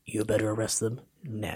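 stern official. Retold or imitated. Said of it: "He goes".

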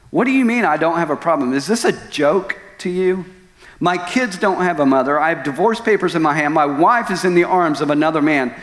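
worked-up, incredulous argument, pitch climbing; retold indignant protest. Betrayed husband protesting to God, indignant. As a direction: plead your case in outraged disbelief.

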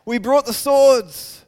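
eager, loud cry of the disciples; rally the Lord to fight; disciples exclaiming. Retold or imitated. Disciples urging Jesus, eager and loud. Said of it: "they exclaimed".

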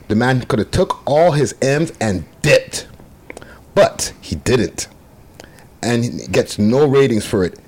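emphatic statement with deliberate pauses; dramatic reading. Shown as a demonstration. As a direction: punch the key words as you read it out. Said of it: "I did the dramatic reading".

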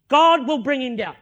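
retold vow, firm and loud; confident declaration. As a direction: state it with full assurance.

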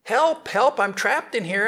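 high, desperate cry for help; lightly voiced monkey crying help. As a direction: call out like a trapped monkey. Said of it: "heard him crying".

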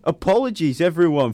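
put-on high, loud stab at an Australian accent; mock Australian announcing an apology; attempted Australian accent. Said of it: "read it in his accent".

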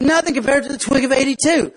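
a touch of a veteran's boast; nerdy ant. Acted. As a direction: brush it off, proud old hand. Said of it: "the real nerdy looking ant".

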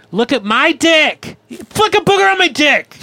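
high-pitched sixth-grader tirade; mock outrage. Sixth-grader confronting a classmate, high mock outrage. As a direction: squeal in mock indignation. Acted outburst at schoolmate.

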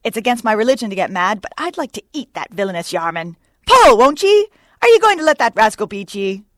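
loud, high exhortation to a boat crew; urgent, bellowed rallying cries; Starbuck. A narrator's reading. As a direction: goad the rowers with rising shouts. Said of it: "cried Starbuck to his crew".

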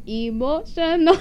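slow, put-on Asian accent; tentative mock Asian accent; Asian accent attempt. Shown as a demonstration. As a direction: imitate the meme's Asian accent. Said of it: "I can't do an Asian one".

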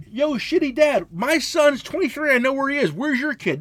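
loud, high mock yell; retold yelling. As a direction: holler accusingly at the dad, re-enacting it. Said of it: "And I'm yelling at the guy".

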